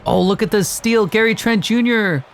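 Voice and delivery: high, lively steal call; animated sportscaster burst; excited play-by-play. Real, not acted. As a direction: jump on the play with rising excitement. Calling a steal in game.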